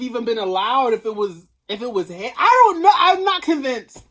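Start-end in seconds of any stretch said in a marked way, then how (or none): 2.4-4.0 high, loud burst of doubt; exasperated outburst. Real, not acted. Vlogger to fans, fed up and loud. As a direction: blurt it out, fed up.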